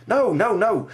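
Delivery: high, loud soldier protest. Acted. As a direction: insist earnestly as the soldier. Soldier reassuring boy.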